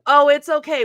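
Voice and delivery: bright customer-service reassurance; cheerful barista. Retold or imitated. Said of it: "and I quote".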